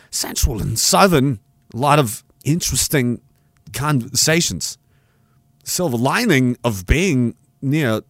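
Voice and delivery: slow, halting read with odd pauses; Christopher Walken reading. Retold or imitated. Reading a viewer's super chat in a slow Walken voice. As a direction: read each phrase slowly with strange breaks. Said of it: "I didn't read it like Christopher Walken".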